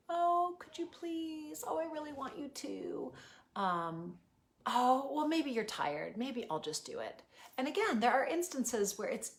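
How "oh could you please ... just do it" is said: high, slow, begging parent who gives in; pleading permissive parent. Acted. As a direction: plead with the child, then cave. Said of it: "permissive parent might plead".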